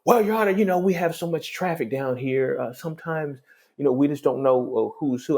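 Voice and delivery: high, hurried apologetic backpedal; flustered excuse. Retold or imitated. Clerk apologizing to the judge, flustered and high. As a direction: scramble to cover the mistake, pitched high.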